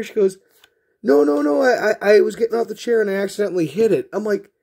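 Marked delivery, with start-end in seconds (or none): 1.0-4.1 high, loud, rushed excuse; protesting sister. Retold or imitated. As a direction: imitate a sister frantically denying blame. Sister's hurried excuse to parents, acted.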